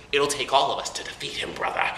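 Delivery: Second Hokage. Retold or imitated. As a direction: put on a different voice, lightly hammed up. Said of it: "I'm sorry, that's another voice".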